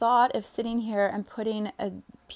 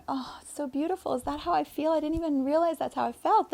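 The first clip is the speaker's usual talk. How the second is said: soft wonder; 6 semitones higher, faster than usual. Retold or imitated. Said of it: "I'm like".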